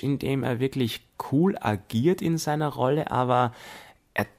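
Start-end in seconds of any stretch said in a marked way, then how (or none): none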